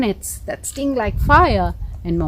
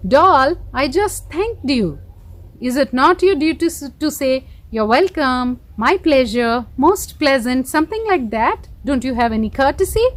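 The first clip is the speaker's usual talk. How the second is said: lightly voiced fairy; 2 semitones higher than usual. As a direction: scold the doll politely but firmly. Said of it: "the fairy said".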